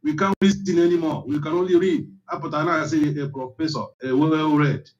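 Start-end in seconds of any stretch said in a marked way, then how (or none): 1.3-2.1 the same words again, pitched far higher in disbelief; an incredulous high-pitched echo; exasperated high repeat. Real, not acted. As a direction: throw it up high, fed up. Repeats the complaint for emphasis.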